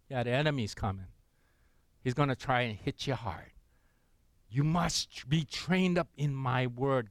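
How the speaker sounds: voice of God. Retold or imitated. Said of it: "God still says".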